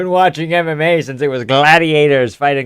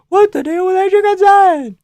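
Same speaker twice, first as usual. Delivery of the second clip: high comic voice; 5 dB louder than usual. Pretend.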